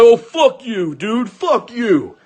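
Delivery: high-pitched mock outrage; imitated indignant comeback. Boyfriend cursing back from the car, mock outrage.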